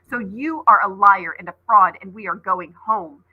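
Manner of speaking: a touch of tears under loud accusing words; sobbing defiance. A narrator's reading. Ollie accusing Seth through tears, a mild sob. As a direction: accuse him while crying, holding firm. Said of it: "She was sobbing as she spoke".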